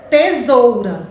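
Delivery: slow syllable demo. Shown as a demonstration. Teacher sounds out tesoura slowly so kids find the syllables. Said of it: "Onde é que tá o rá?".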